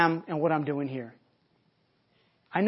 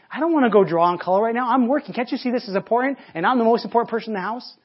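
mock irritated father; 3 semitones higher than usual. Father's retort to his kids.

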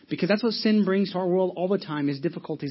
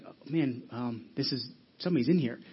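robber's halting, low, soft muttering; hushed unease; 5 semitones lower, 6 dB quieter than usual. Acted. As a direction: drop the voice low and soft, lightly acting a rattled burglar. Robber freaks out at hidden voice.

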